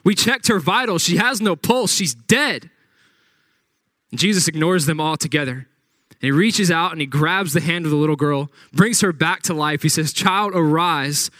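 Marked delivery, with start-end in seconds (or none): 0.0-2.7 raised, incredulous scoffing; mocking disbelief. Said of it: "they start laughing at him like". 10.1-11.3 slow, drawn-out call to rise; Jesus calling the dead girl, slow; slow command. Retold or imitated.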